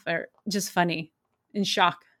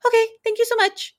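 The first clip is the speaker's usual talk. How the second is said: much higher, louder, flustered quick thanks; shocked thanks; 12 semitones higher, 4 dB louder, faster than usual. Retold or imitated. And I immediately am shocked.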